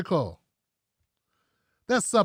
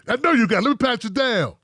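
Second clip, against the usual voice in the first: mock Umar shakedown; 3 semitones higher than usual. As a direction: push like a schoolyard bully shaking someone down. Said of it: "He be Debo-ing my brothers and sisters".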